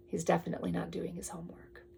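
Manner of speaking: fast hushed whisper; quick conspiratorial whisper; whispered aside. Real, not acted.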